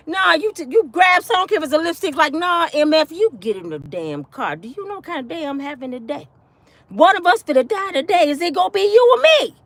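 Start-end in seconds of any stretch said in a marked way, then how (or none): 2.3-9.5 acting crazy threat. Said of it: "start acting crazy".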